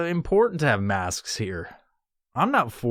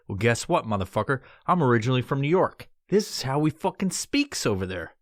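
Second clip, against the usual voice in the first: New York tone. Acted. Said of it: "talking in this sort of tone".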